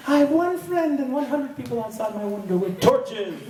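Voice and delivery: high, laughing through the line; giggling exaggeration; laughing joke. Real, not acted. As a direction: crack yourself up. Joking about angry mob.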